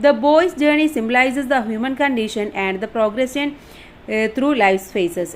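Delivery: reading the English line out slowly, word by word; slow dictation reading. Shown as a demonstration. Teacher reading the study notes aloud, slow and deliberate. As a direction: spell it out slowly for the class.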